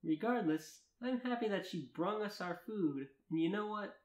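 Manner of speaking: earnest read-aloud of a first-person tale; story narration. Acted. Narrator reading fan fiction to friends, story narration. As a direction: narrate it in measured, lilting sentences.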